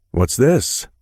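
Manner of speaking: put-on high, young boy's voice; child's voice. A narrator's reading. Narrator voicing a small boy asking. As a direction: voice a curious little boy.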